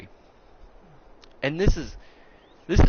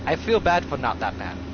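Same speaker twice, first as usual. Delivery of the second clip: put-on light broken-English accent of an old martial arts master, clipped grammar; hint of a wise old master's foreign accent; mock old master's accent. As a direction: lightly imitate the old teacher's accent, calm and solemn. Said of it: "we can actually do the accent of how this story goes".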